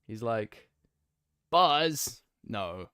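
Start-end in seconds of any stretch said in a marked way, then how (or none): 1.5-2.2 loud, high cartoon-cowboy call; Woody. Streamer searching for the voice on request, cartoon cowboy shout. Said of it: "Do an impression of Woody".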